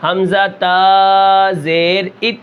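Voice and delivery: slow drill of حمزہ تا زیر ات with ات rising at the end; drawn-out teacher demo ending on a rise; slow spelled reading. Shown as a demonstration. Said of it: "اس میں بہت فرق ہے". (آہستہ ہجے، آخر میں آواز اونچی)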